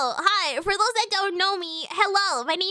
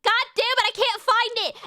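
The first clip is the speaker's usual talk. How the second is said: frustrated; 6 semitones higher, 3 dB louder than usual. Real, not acted. Frustrated search for a clip.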